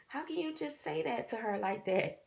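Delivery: high-pitched, laugh-tinged imitation of grandfather; amused disbelief. Grandfather reacting to grandmother's remark, mock scandalized and laughing. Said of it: "We was laughing so hard".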